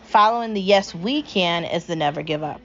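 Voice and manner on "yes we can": yes, we can drawn out slowly; slow mantra. Acted. Host recalls the mantra to listeners, drawn out.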